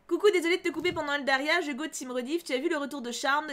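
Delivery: ordinary talk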